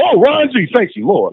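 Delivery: like a prayer just answered; relieved thanks. Retold or imitated. Rescued from a beating.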